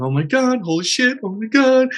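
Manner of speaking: put-on a frightened kid's inner voice blurting out; scared part panicking. Inner child part freaking out on first day, panicky. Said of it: "It's scared".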